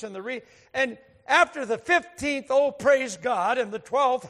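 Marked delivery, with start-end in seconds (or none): 2.5-3.6 loud, drawn-out mock praise; toned-down retold holler; imitated praise shout. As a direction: call it out like an excited worshipper. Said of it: "just yelled out".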